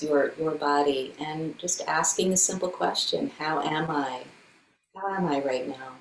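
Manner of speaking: calm meditation guide with long silences; guided meditation. Acted. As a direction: gently lead a body check-in, leaving room between phrases. Leads a meditation.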